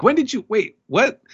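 high, confused double take; Hold'em caught off guard, mock baffled. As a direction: stammer out a startled question.

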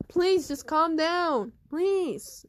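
loud pleading. Acted. Counselor pleads for calm.

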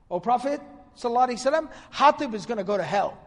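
angry complaint. Retold or imitated. Servant angrily complaining to the Prophet about Hatib, mild mock anger. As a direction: retell the servant's outburst with some heat. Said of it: "He was really angry and upset".

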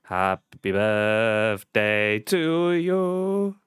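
very slow chipmunk-filtered singing. Shown as a demonstration. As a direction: drag it out through a chipmunk filter. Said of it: "chipmunk voice".

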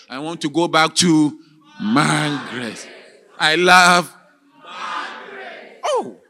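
desperate shout. Acted. Prisoner calling out for his wife, desperate shout. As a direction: cry out for her with everything.

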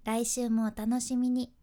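来週もお楽しみに level, no contour; 来週もお楽しみに on one even pitch; flat pitch. Shown as a demonstration. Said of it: "じゃなくて".

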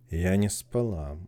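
slow, hoarse and weak. Acted. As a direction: croak it out drowsily. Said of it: "хриплым, слабым голосом".

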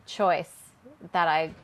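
dry, low-key sarcastic praise. Real, not acted. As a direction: understate it, meaning the opposite. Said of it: "Is that sarcastic?".

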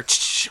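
quick hissy rattling noise; imitated snake rattle. Telling friends what he hears before fleeing, imitated rattle. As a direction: mimic a rattlesnake's warning rattle.

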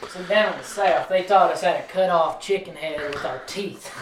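hammed-up Southern country accent; folksy Southern storyteller accent. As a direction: put on a lively country twang. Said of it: "rest of the podcast with country accents".

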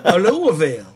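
put-on Texas accent. Texan teases the Kentucky host, mock Texas accent. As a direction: drag the name out like a hammy Texan. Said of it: "we're doing the Texas accent".

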